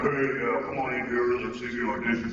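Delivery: a hint of a casual casting director inviting him in; barely changed voice, easygoing come-on-in; relaxed, friendly director calling him in, close to his own voice; lightly voiced Chris Sabat. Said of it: "that's my Chris Sabat imitation".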